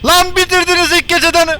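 very high, loud alarmed cries; panicked yelling. Real, not acted. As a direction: cry out as the power dies. Power runs out, panic. (elektrik bitince panik çığlığı)

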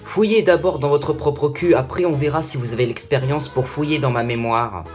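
loud, offended comeback; angry retort. Acted. Snapping back at the sage.

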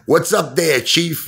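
high, giggly imitation of a cheeky smoker; joking mock greeting. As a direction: greet the cop through a laugh. Imagined smoker greeting police officer, joking.

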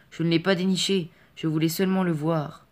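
put-on a frightened boy defending himself; pleading boy. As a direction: plead your innocence, urgently.

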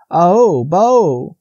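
high, loud bleating call; deer bleat. A narrator's reading. Frightened Faline bleating at the huge stag. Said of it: "bleating again".

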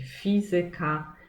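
fizyka stressed on FI; stress on third from end. Shown as a demonstration. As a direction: fizyka with the first syllable FI hit. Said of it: "tą sylabą akcentowaną ma być trzecia sylaba od końca".

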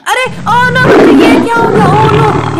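oh no, what happened here; shocked surprise. Acted. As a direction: react as if you just found the disaster. Sudden discovery of trapped heroes.

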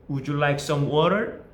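very slow with a rising "water"; practice drill question. Shown as a demonstration. Teacher leads a practice drill, asking very slowly. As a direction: stretch "would you like some water" for the class to repeat. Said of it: "이 둘 중에 하나로 대답해 보세요".

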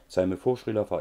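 "Zeig mir vor" rising, "Srila Fa" falling, in three-beat groups; rote recitation. Shown as a demonstration. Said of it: "Ich kann's mittlerweile furchtbar auswendig".

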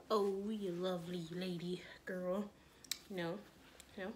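breathy whispered aside. Real, not acted.

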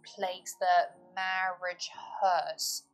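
slow, deliberate reading of the verse; poem recital. Shown as a demonstration. Teacher quotes the final stanza aloud, slow deliberate reading. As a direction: read the lines slowly and gravely. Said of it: "As he says".

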